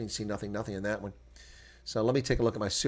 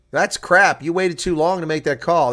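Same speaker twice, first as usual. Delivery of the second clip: higher and louder, fed up; angry complaint; 6 semitones higher, 9 dB louder than usual. Real, not acted. Viewer scolding the referee for a late call, angry complaint. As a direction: tell the ref off.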